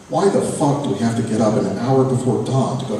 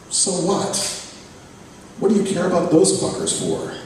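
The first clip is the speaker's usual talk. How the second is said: put-on higher, pushy teen friend voice; Kay challenging; 7 semitones higher, 4 dB quieter than usual. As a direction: needle him, why do you care. Kay pushing back at narrator.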